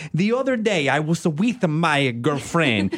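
mock sweet Italian director, searching for words; hammed-up Italian accent; imitated Italian accent. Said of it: "take his adorable accent".

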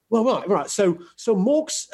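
hesitant put-on British accent. Shown as a demonstration. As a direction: stall for words in mock British. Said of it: "Can you do a British accent?".

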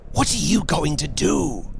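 hoarse whisper. A narrator's reading. Husband holding his wife back, hoarse whisper. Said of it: "he whispered hoarsely".

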